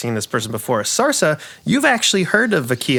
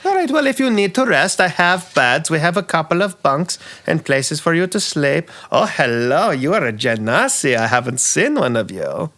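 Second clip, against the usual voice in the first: campy drag queen; 4 semitones higher than usual. Acted. NPC keeps talking.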